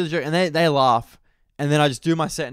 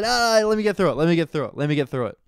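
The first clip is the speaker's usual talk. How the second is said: high protest settling back down; hurried pleading; 4 semitones higher, faster than usual. Retold or imitated. Comic to heckling audience, pleading, high then easing down. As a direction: plead to be allowed to finish, starting high.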